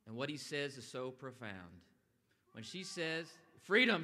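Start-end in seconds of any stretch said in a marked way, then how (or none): 3.6-4.0 a loud quoted cry of the word; a retold yell, louder, not a full scream; mock yell. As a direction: belt out Freedom in a quick burst. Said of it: "she yells".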